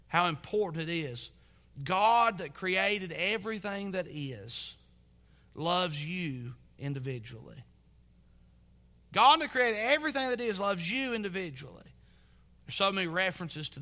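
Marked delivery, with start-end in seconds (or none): 1.8-7.6 slow, weighty declaration. Real, not acted. Preacher impressing God's personal love on congregation, slow and weighty. 9.1-11.8 higher-pitched, in one unbroken sweep; emphatic restatement. Real, not acted. Preacher driving home God's love to congregation, emphatic and raised. Same line repeated with more force.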